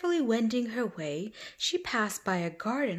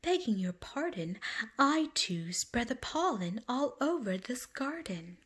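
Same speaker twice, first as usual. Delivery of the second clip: bragging butterfly; 3 semitones higher than usual. Acted. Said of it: "bragged the butterfly".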